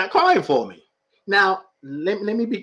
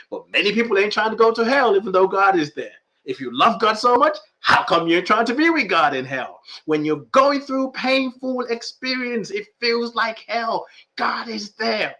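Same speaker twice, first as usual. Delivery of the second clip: preaching; 4 semitones higher, 4 dB louder than usual. Acted. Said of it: "coming across like a preacher now".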